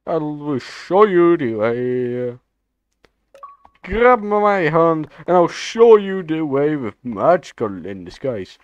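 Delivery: slow drawn-out chant of the meme line; Knuckles meme voice. Acted. Gamer chanting the meme line to teammates, slow and drawn-out. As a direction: stretch every word like a tribal chant.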